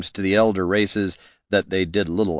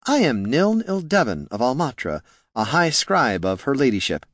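lightly voiced scribe, higher pitch; mild-mannered scribe; 4 semitones higher than usual. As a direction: introduce yourself as a courteous scribe, lightly.

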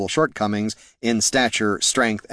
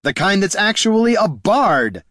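high, louder retort; snapped; 10 semitones higher, 4 dB louder than usual. A narrator's reading. Bard answering the thief accusation, snapped. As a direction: snap back, indignant. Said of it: "snapped Haraldin".

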